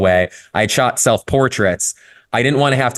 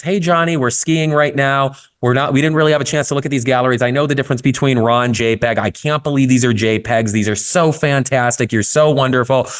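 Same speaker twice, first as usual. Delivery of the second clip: a hint of a bubbly mother, higher; gushing mother's reply; 5 semitones higher than usual. Mother reassuring photographer by email, lightly voiced gushing. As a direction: read it like a beaming, reassuring mom. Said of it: "she writes back and it's".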